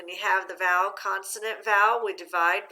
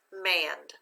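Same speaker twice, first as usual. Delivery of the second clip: mand said alone, level, without accent; unaccented syllable; 3 semitones lower than usual. Shown as a demonstration. Teacher sounds out second syllable for students, mand unaccented. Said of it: "without the accent".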